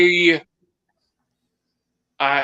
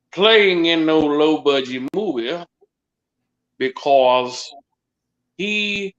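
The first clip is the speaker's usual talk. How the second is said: put-on Louisiana accent. Asked for a Southern accent, does a light Louisiana accent. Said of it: "that's my Louisiana accent there".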